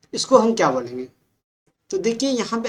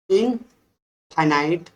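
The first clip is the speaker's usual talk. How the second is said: very slow, drawn out इनफाइनाइट with a rising end; slow dictation; much slower than usual. Shown as a demonstration. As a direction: spell out इनफाइनाइट slowly for the class. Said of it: "बोलेंगे इनफाइनाइट".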